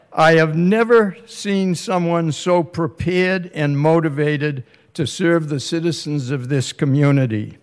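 usual speaking voice

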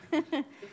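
brief bright laugh; short laugh. Real, not acted. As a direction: laugh it off lightly. Laugh at own joke.

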